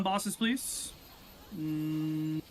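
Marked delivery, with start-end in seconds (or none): 1.6-2.4 microwave ding sound. Retold or imitated. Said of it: "Sorry for the impression of a microwave".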